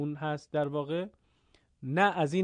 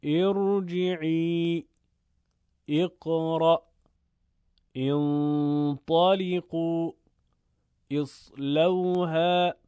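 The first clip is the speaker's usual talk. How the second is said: Quranic recitation practice. Shown as a demonstration. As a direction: recite each word measured and sustained, for pupils to practise. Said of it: "چند مثال برای تمرین".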